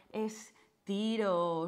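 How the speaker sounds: estiro stretched long and slow; drawn-out stretch cue. Shown as a demonstration. Instructor guiding class into a stretch, slow drawn-out estiro. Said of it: "y estiro".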